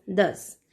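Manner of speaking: दस starting with a voiced द; short model of दस, opening on द. Shown as a demonstration. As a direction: teach दस with a clear द at the front. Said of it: "इन सब में से द का sound".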